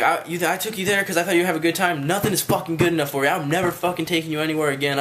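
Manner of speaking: mildly heated retold rant; mad. Friend's dad scolds the guest he took along, retold mad rant. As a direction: imitate a mad dad laying into someone, pitch a little lifted. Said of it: "he was mad at me".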